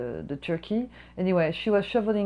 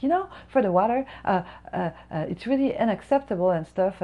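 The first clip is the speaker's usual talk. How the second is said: hammed-up complaining customer, higher; mock whiny customer; 3 semitones higher than usual. Server mimics the customer complaining about the water, mock whiny. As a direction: whine like an entitled diner. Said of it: "She's like".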